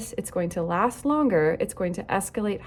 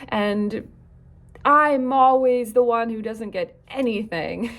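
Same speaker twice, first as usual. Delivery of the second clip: higher, louder, fast whiny complaint; complaining child; 4 semitones higher, 4 dB louder than usual. Retold or imitated. Coach imitating a child who feels left out, whiny. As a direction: whine that it's unfair. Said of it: "If we hear our child saying".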